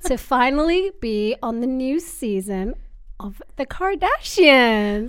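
slow drawn-out Kourtney Kardashian with long pauses; a light take on Kourtney Kardashian, slow and paused; slow, paused celebrity drawl, lightly done; Kourtney Kardashian impression. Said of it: "she's like".

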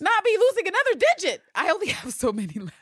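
high, loud, desperate whine; hammed-up frantic whimper; mock pleading. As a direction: beg like a panicked captive. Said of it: "He's like".

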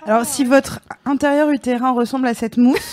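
loud laughing fake announcer voice; mock public service announcement. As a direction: announce it like a health warning, laughing. Mock medical advice to listeners.

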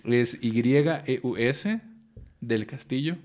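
slow letter-by-letter spelling of "Y E U S" then "del Castillo". Shown as a demonstration. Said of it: "deletrea tu nombre porque la gente no va a saber".

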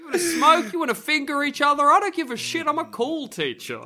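high, breezy slacker teacher; cool teacher voice. Acted. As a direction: play it like a too-cool teacher. Teacher character, high pitch.

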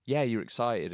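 lightly voiced encouraging mother; encouraging mum. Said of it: "And she's like".

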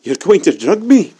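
panicked. Acted. Panicked captive.

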